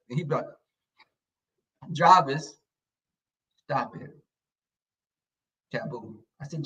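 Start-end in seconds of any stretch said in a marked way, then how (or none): 1.9-6.2 very soft, feeble command; mock-meek little order; bassless scolding. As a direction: imitate a timid telling-off, fading away. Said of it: "put a little bit more bass in your voice".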